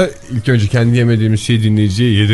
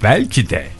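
quieter, low-pitched "belki de"; low musing; 4 semitones lower, 3 dB quieter than usual. Pretend. Şakayla aynı sözü iki tonda söylüyor. (alçak sesle, düşünür gibi)

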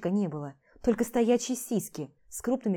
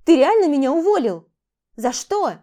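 higher, much louder indignant question; shocked outrage; 7 semitones higher, 11 dB louder than usual. Acted. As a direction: demand an answer, stunned. Vlada confronts Max about firing. (возмущённое потрясение, громко и высоко)

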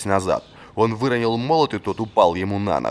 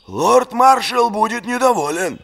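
slow, puffed-out mocking voice; puffed cheeks mock; 13 semitones higher, 5 dB louder than usual. A narrator's reading. Friend teasing the late captain, puffed-cheek mockery. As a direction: puff your cheeks and tease. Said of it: "сказал Чален, гором надувая щёки".

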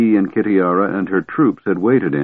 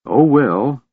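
sighed; 6 semitones higher than usual. Acted. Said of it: "the Kender sighed".

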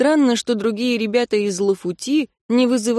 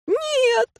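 very high squeal of refusal; frightened no. Acted. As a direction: squeal no in fear.

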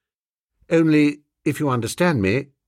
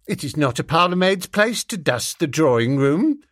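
haughty; 4 semitones higher than usual. Acted. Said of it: "she sniffed haughtily".

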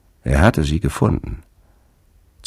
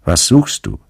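regal purring riddling voice; 9 semitones higher, 5 dB louder than usual. Acted. Sphinx questions Fabel.

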